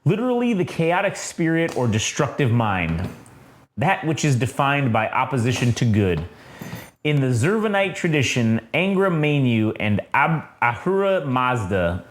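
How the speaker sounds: measured reading of a solemn text; narration reading. A narrator's reading. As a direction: read it out like a comic-book narrator. Reads the comic's narration aloud.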